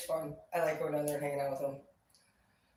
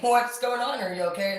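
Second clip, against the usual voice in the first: concerned surprise; 4 semitones higher, 5 dB louder than usual. Retold or imitated. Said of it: "you're like".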